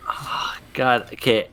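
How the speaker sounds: whispering. Real, not acted. Player whispering to self.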